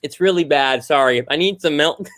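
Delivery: talking through sticky peanut butter; tongue stuck with peanut butter; mouth full of peanut butter. Real, not acted. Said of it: "I can't speak".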